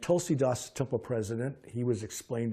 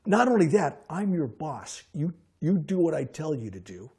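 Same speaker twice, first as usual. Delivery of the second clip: bossy order; 5 semitones higher, 6 dB louder than usual. Retold or imitated. Manager pulls rank on officer.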